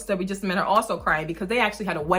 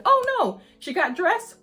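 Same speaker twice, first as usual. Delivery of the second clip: a squeaky, higher mom yelp of mock alarm; mock panicked mom; 9 semitones higher, slower than usual. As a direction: play the flustered mom, pitch jumping up. Mom voicing a kid mishap.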